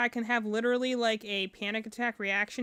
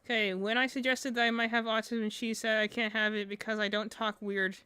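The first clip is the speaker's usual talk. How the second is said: deadpan. Shown as a demonstration. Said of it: "I'm saying it just like the deadpan autism person".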